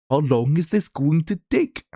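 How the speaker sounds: second go at an Indian accent. Shown as a demonstration. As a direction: have another try at an Indian accent. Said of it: "was that the good Indian accent".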